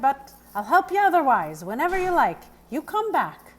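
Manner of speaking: gruff but kind groom; warmly inviting her back; kindly farrier voice. A narrator's reading. Grimes voiced.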